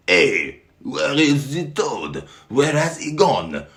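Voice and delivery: loud, high bewildered shouting; crying out. Acted. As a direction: shout around for the vanished toad.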